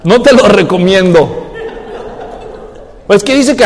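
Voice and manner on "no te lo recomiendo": laughing as he says it, louder; laughing advice. Real, not acted. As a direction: chuckle through the warning. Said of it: "repeated advice".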